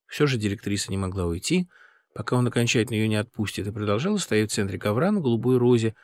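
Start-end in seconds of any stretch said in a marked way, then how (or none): none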